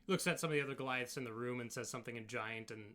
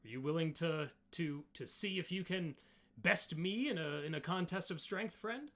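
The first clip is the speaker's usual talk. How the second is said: higher, louder Goliath challenge; eager Goliath inviting a contest; challenging Goliath; 5 semitones higher, 5 dB louder than usual. Acted. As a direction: throw down a friendly challenge, lifting sharply at the end.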